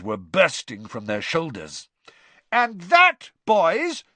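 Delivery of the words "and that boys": put-on high, loud call to the boys; yell over tumult. A narrator's reading. Mister Weasley to his boys above the crowd's tumult, yelling. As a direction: shout it over a noisy crowd. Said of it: "yelled Mister Weasley over the tumult".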